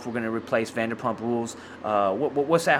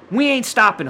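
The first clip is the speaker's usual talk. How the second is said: higher, louder rallying cry; hyped declaration; 7 semitones higher, 5 dB louder than usual. Real, not acted. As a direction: fire up the homies. Defiant sign-off hype.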